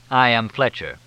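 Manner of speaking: self-important, loud name announcement; a touch of grandeur; pompous announcement. Acted. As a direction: announce yourself with mild pomposity. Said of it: "Why so pompous about it?".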